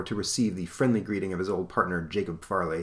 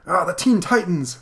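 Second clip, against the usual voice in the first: higher, louder mock-grand greeting; sly convict greeting; 9 semitones higher, 5 dB louder than usual. Escaped convict recognises the Titans, hammed-up greeting. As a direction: hail the heroes with hammed-up flair.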